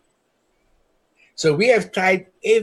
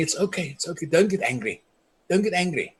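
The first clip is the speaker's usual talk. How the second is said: softer, mildly calming retold reassurance; soothing; 3 semitones higher, 4 dB quieter than usual. Elders calming the angry activist, softly soothing. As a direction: quote elders gently talking someone down.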